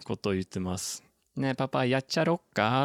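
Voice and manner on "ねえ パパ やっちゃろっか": imitating a small child's Hakata dialect, pitched up; higher, lightly voiced Hakata-dialect kid; son's Hakata dialect. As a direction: quote your little boy asking Papa in Hakata dialect. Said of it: "ちっちゃい子の博多弁かわいいですよね".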